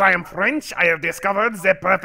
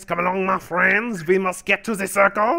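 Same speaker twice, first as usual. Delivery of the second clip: put-on German accent held throughout. Joking around with the others in a put-on German accent. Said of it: "for now I am German again".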